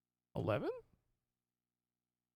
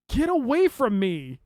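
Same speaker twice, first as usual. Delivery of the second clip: panicked yelling; 7 semitones higher, 5 dB louder, slower than usual. Real, not acted. Enemy walking toward him.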